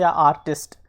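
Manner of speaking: "आर्टिस्ट" broken as आर, then टिस्ट; two distinct beats in "आर्टिस्ट"; split into syllables. Shown as a demonstration. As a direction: sound out "आर्टिस्ट" in two parts. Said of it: "आर्टिस्ट जो है आपका ज़्यादा prominent है".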